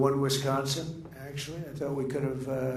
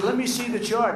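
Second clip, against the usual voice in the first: louder, much higher quoted request; retold request; 9 semitones higher, 6 dB louder than usual. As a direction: replay asking for the chart. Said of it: "and then I said".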